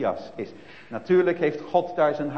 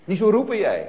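hushing sst, then a higher, louder scolding; shushing crowd; 6 semitones higher, 4 dB louder than usual. Retold or imitated. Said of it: "mensen om hem heen die zeggen". (menigte die Bartimaeus sust en berispt)

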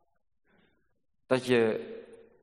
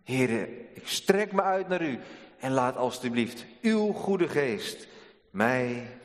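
heartfelt prayer. Acted. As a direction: pray it as a humble plea. Preacher voices a prayer.

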